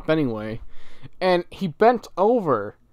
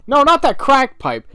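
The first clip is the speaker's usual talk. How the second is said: loud laughing self-correction; 9 semitones higher, 11 dB louder than usual. Real, not acted. Laughing as he corrects his own slip. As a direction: burst out laughing as you fix the word.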